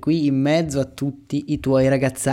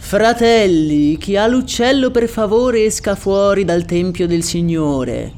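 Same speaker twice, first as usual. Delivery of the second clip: mock solemn priest from the pulpit; preaching priest; 3 semitones higher, 3 dB louder than usual. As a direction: address the flock from the pulpit. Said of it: "poi fece".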